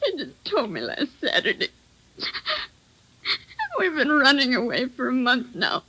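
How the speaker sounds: near tears, broken pauses between lines; weary, tearful wife confessing; tearful confession. Acted. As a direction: tell it through held-back crying. Wife learns husband is murderer.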